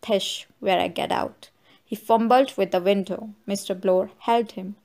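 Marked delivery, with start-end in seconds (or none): 0.0-1.5 put-on lightly slurred drunk old man. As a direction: slur the words a little, tipsy. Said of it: "the old fellow rose unsteadily".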